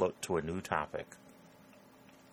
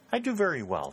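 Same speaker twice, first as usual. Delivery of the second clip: quiet smile; 11 semitones higher, 3 dB louder than usual. Acted. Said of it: "with her quiet smile".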